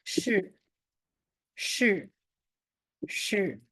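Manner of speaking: 是 said slowly and clearly, falling shi; teacher modelling a word. Shown as a demonstration. Teacher drilling the word for the class, slow and clear. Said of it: "in Chinese, all of this means just one word".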